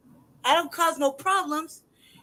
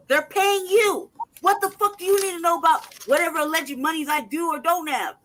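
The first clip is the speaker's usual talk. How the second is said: angry yelling; 4 semitones higher, 5 dB louder than usual. Real, not acted. Angry tenant yelling about the landlord's rent notice. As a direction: yell it out in real anger. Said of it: "I'm sorry, I'm yelling".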